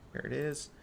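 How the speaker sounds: speaking through hiccups. Real, not acted. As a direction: talk while hiccuping. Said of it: "I got the hiccups".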